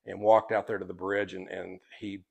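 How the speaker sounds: hushed, low telling of a tragedy; subdued. Real, not acted. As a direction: let the voice sink very soft and low. Recounts a real tragedy on bridge.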